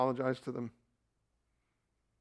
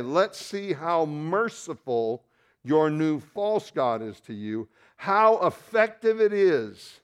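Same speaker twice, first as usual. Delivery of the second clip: sarcastic challenge; 2 semitones higher, slower than usual. Acted. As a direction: taunt them with each word. Preacher voicing God, mocking idols.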